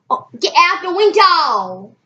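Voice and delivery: loud, high mock yell; comic loud shoo. Real, not acted. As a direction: chase her off, exasperated. Shooing sister away.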